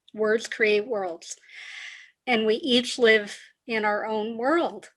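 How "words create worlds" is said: slow, measured restatement; unhurried, evenly spaced words; deliberate repeat. Real, not acted. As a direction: let the key phrase sink in. Guest repeats maxim for effect.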